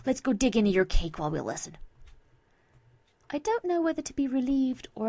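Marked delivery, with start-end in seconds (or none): 0.0-1.8 mildly eager, lively invitation; excited. Acted. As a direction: urge a friend toward the cake. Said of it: "Vinyl says excitedly".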